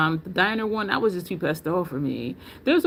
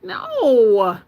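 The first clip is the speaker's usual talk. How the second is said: disgusted refusal; 6 dB louder than usual. Retold or imitated. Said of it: "I'm like".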